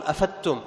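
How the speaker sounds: أفدتم with a thin "d" melting into ت; wrong merged Dad. Shown as a demonstration. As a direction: say أفدتم as "afattum", losing the Dad. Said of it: "ما تقول".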